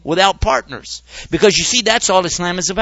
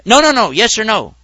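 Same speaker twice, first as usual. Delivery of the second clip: louder, higher insistent No, no, no; pushy questioner; 4 semitones higher, 4 dB louder than usual. Acted. Questioner badgering the Muslim, insistent loud demand. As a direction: cut him off and demand yes or no.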